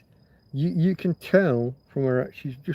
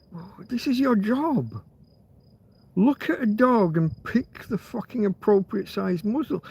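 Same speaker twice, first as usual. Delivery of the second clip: raised, heated rant; angry rant; 6 semitones higher than usual. Real, not acted. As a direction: rant at the vet, voice up high. Ranting at the vet.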